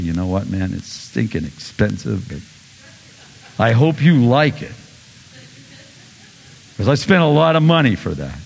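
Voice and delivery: reluctant, put-upon giving; mock grumbling gift giver; grudging gift giver. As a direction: grumble while handing the gift over. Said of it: "with an attitude that goes".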